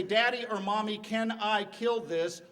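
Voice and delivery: a hint of a small kid asking permission; child asks a parent, mock little voice; little child's voice. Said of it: "that little voice say".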